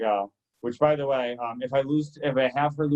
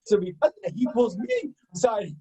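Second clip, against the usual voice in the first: ordinary delivery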